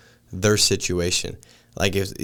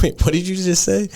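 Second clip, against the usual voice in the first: much higher, incredulous double-take through amusement; mock disbelief; 10 semitones higher than usual. Dad questioning his young daughter's swearing, mock disbelief. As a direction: act out a parent taken aback, pitch leaping up. Retold parent reacting to child's swearing.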